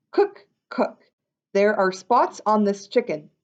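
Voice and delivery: a diner spots trouble with his chicken; mock worried diner. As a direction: call out to the cook in alarm. Joke voice from hen run.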